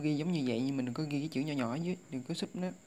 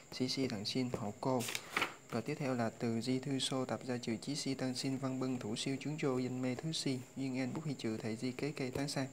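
list recitation. Shown as a demonstration. Teacher reciting the vocabulary list to students, steady and even.

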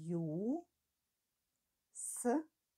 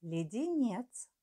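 dictating; 3 semitones higher, slower than usual. Shown as a demonstration. Dictation, word said twice.

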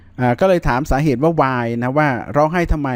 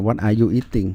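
slow careful model; 4 semitones lower, much slower than usual. Shown as a demonstration. Teacher repeats the answer slowly for students, slow and careful. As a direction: spell the question out slowly for the class.

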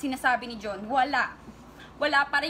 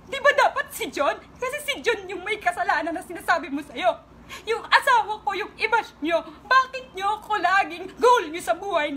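upset outburst; 3 semitones higher than usual. Real, not acted. Upset rant at her online attackers.

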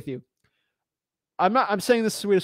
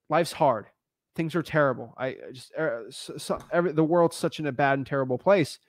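sulking broken person; 2 semitones lower than usual. Retold or imitated. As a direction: play a defeated person, dropping to a mumble. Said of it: "they're sort of sulking".

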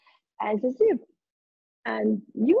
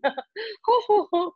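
put-on old person laugh; 6 semitones higher, much slower than usual. Shown as a demonstration. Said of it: "the old people are going to laugh".

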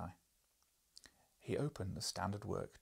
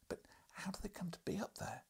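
eager journalist; 10 semitones higher than usual. Acted. Journalist asks.

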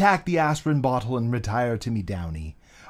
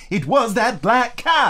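spooked; 9 semitones higher, 5 dB louder, slower than usual. Acted. Superstitious friend blurts fear.

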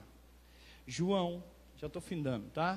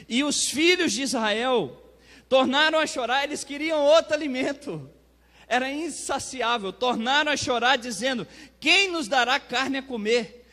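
raised, loud preacher's reading voice; fervent scripture reading; 5 semitones higher, 6 dB louder than usual. Acted. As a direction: proclaim the scripture forcefully. Reads scripture aloud, preaching. (leitura bíblica proclamada com fervor)

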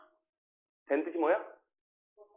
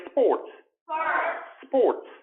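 careful, isolated word; slow model; 6 semitones higher than usual. Shown as a demonstration. Teacher takes the first word alone, slow and careful. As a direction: say it carefully, pausing between takes. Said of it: "천천히 앞에 거부터 할게".

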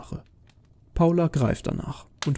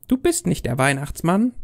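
put-on higher, challenging child voice; defiant little girl; 5 semitones higher than usual. Girl doubting Santa to his face, defiant child voice. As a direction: challenge him like a sceptical kid.

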